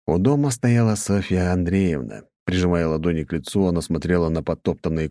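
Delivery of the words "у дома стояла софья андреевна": ordinary delivery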